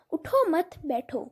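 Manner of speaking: اٹھو مت run together, then a gap before بیٹھو; pause after مت. Shown as a demonstration. Teacher showing the wrong stop, اٹھو مت joined before بیٹھو. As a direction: join مت onto اٹھو, break, then بیٹھو. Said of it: "میں غلط جگہ اسٹاپ لے لی".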